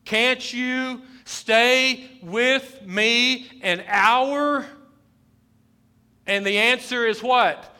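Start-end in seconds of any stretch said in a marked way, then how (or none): 0.0-4.7 slow, high, loud plea; pleading Jesus. Acted. Preacher as Jesus pleading with his disciples. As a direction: beg the sleeping disciples to stay.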